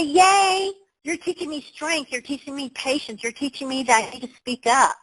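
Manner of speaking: high, bright cheer to a thorn in your side; mock cheerful thanks. Speaker to a person who annoys her, high mock cheer. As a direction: sing out a cheery thank-you to a foe. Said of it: "The person who's a thorn on your side, say".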